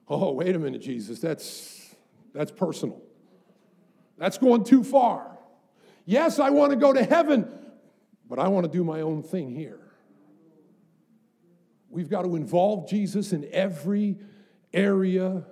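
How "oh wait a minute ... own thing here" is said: flustered protest. Pretend. Believer resists Jesus poking in.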